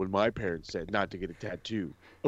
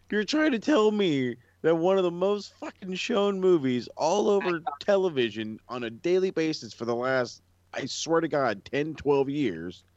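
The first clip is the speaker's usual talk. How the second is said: incredulous rant; 6 semitones higher than usual. Real, not acted.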